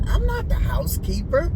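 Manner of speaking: mock indignant denial. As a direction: protest high with a rise on not. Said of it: "I'm like".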